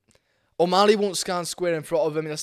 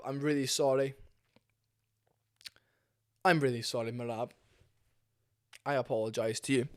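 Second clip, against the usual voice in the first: softer and lower, a mock-sincere sorry; quiet apology; 4 semitones lower, 4 dB quieter than usual. Real, not acted. Apologising to Merab on camera, soft and low. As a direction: hang your head and say sorry softly. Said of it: "come on here and apologise".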